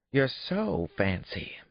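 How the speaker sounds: put-on high child's voice, stretched slowly; slow teasing drawl. A narrator's reading. Daughter sums up her father's outfit, slow and teasing. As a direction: savor the tease.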